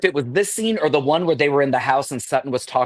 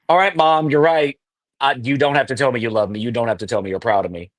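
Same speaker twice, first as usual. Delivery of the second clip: resigned; 3 semitones lower than usual. Retold or imitated. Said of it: "throw up your hands and be like".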